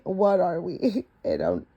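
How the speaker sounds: breaking into laughter; cracking up at a mistake; giggling through the words; laughing. Real, not acted. Reader laughs at own flub.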